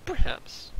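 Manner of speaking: sly whispered perhaps. Acted. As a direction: whisper it slyly. NPC coy answer.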